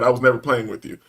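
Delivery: low, simple denial; calm. Retold or imitated. Man answering the annoyed clerk, calmly. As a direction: state it quietly and leave it there. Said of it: "didn't qualify it any further".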